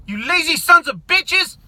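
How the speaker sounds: angry yell. Real, not acted. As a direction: hurl the insult with contempt. Ranting at protesters.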